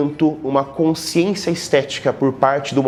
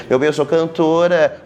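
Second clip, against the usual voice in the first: Maísa; 3 semitones higher than usual. Retold or imitated. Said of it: "como diz a Maísa".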